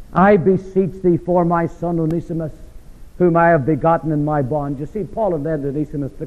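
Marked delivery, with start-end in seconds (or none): 0.1-4.8 pleading read. Shown as a demonstration. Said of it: "pleading for his son".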